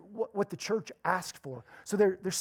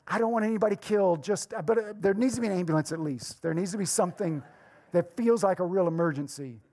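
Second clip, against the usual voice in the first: joking gripe; 4 dB louder than usual. Retold or imitated. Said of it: "That's what I say".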